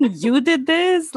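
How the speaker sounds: drawn-out shocked disbelief; slow incredulous question. Retold or imitated. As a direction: ask it slowly, appalled. Mocking the parents' reaction.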